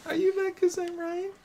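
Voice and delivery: high laughing taunt. Real, not acted. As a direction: laugh through the question.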